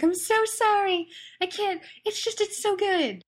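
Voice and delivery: high, breathless apology through laughter; laughing apology. Retold or imitated. Telling coworkers sorry, still laughing hard. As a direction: squeak it out while cracking up. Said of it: "I was just, like, howling with laughter".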